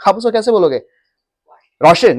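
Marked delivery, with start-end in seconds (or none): 1.8-2.2 a blunt one-word answer, a bit louder; curt reply. Shown as a demonstration. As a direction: snap back just the name, no courtesy. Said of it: "नहीं". (रूखा, एक शब्द का जवाब)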